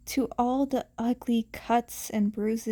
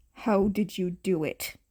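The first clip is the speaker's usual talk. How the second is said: low growl; 5 semitones lower than usual. Acted. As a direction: lower menacing growl. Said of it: "the man growled".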